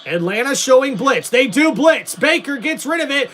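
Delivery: steady live sports commentary, building tension; play-by-play call. Acted. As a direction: call the drive like a TV announcer. Streamer doing play-by-play.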